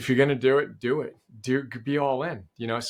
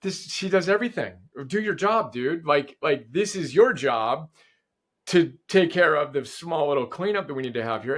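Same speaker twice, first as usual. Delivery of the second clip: firm self pep talk. Retold or imitated. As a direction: tell himself to do the job, with a push. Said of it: "Or I can say".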